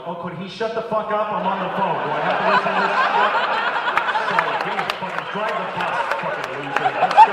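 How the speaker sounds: grumbling that builds to a loud, high yell; impatient passengers shouting down the pilot; annoyed passengers heckling. Retold or imitated. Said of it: "everybody in the back was going".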